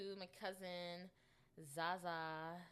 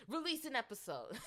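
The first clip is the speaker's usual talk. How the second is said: high, louder, breaking into laughter; laughing; 7 semitones higher, 5 dB louder than usual. Real, not acted. Amused at her own episode promise, laughing. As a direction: crack up as you finish the phrase. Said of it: "why I'm laughing so hard at that".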